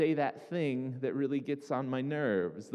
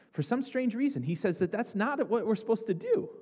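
pitched way up, surprised by his own squeak; high voice; 9 semitones higher than usual. Real, not acted. Preacher to congregation, voice suddenly shooting up high. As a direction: voice jumping up high mid-sentence. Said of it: "that was a high voice there".

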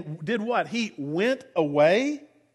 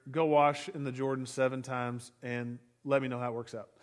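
dismissive brush-off; 8 semitones lower, 10 dB quieter than usual. Retold or imitated. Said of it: "cracks a little bit".

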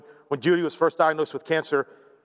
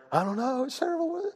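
high, softer fretting voice; mock panic; 10 semitones higher, 4 dB quieter than usual. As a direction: imitate an uneasy worrier, pitch climbing. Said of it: "if we're panicked, fearful, afraid, freaking out, uneasy".

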